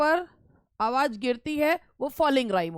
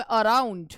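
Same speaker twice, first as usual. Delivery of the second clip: "अराउंड" with unstressed अ, stressed राउंड; stress on second syllable; 2 semitones lower, slower than usual. Shown as a demonstration. Teacher repeating the example for students, stress on राउंड in "अराउंड". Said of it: "अराउंड में अ पे आवाज़ नहीं उठी".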